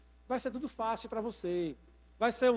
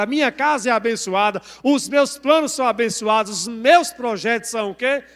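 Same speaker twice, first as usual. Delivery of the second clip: full-force, booming proclamation in a driving rhythm; loud, bold declaration; 13 dB louder than usual. Shown as a demonstration. Preacher shows congregation how to declare faith aloud, loud and bold. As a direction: declare it at the top of your voice. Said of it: "você pode falar em alto bom som".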